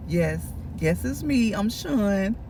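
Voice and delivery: low, soft, cool mock reply; catty. Sean introducing herself at the door, low and catty. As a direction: answer quietly and low with catty self-assurance. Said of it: "gonna be real catty".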